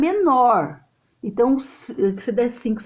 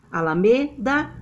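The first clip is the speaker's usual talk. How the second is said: "Alameda" with ME as the strong syllable; stress on ME. Shown as a demonstration. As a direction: test "Alameda" as ala-ME-da. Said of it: "É o me".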